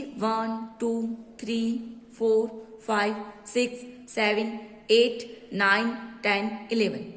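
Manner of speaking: drawn-out classroom counting; slow counting aloud. Shown as a demonstration. Teacher counts the vowels with the class, slow and drawn out. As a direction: count them out slowly, one by one. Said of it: "आप इन्हें count कीजिए".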